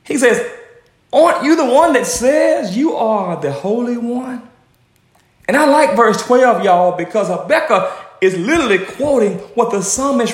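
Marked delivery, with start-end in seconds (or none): 1.1-4.5 higher, insistent acted challenge; challenging question. Prophet holding God to his own word, challenging question. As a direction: press the question on God with raised pitch.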